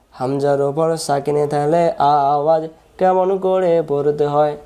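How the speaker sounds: slow, measured sing-song drill; rule recited for students. Shown as a demonstration. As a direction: chant the rule with drawn-out vowels. Chants the rule as question. (সুর করে নিয়ম মুখস্থ করানো)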